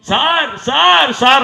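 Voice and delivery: loud, high cries of "sir" to get his attention; calling out loudly. Retold or imitated. Accused man calling to the lawyer across the court, loud and high. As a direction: shout "sir" three times, rising in pitch. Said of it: "అని పిలిస్తే".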